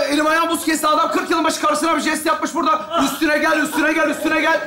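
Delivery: hammed-up angry rant, shouted; mock outburst. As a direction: pretend to lose your temper over a friend. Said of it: "Vallahi sinirleniyorum ben". (yapmacık öfkeli bağırış)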